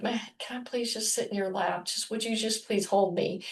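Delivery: a quiet, gentle plea to her irritated husband; soft pleading. Retold or imitated. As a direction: softly ask to be held. Wife retells pleading with irritated husband.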